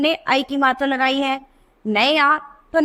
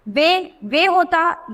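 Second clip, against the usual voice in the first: वे said very slowly, plain e vowel; slow demo; much slower than usual. Shown as a demonstration. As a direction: stretch वे to show the single matra. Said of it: "तो वे नहीं है".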